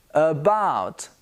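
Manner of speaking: "about" as "uh-BOUT"; careful "about" with neutral first vowel; weak "uh" opening on "about"; schwa demo. Shown as a demonstration. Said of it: "the beginning of the word".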